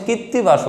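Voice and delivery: কীর্তিবাস with a doubled t, kit-ti-bash; correct name. Shown as a demonstration. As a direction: drop the r in কীর্তিবাস and hold the t. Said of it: "তার নামটা হচ্ছে".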